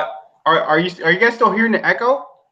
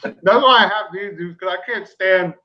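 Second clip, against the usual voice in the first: mouth full; 2 semitones higher than usual. Real, not acted. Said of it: "I'm talking with my mouth full".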